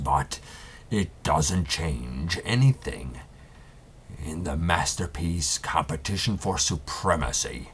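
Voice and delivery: pompous exit speech, lightly voiced; over-dramatic villain. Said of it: "very over dramatic and really theatrical".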